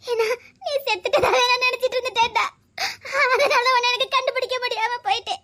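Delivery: crying with a little laugh; regretful, tears in the voice. Acted. Explaining to him why she failed to recognize him, tearful. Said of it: "அழாத".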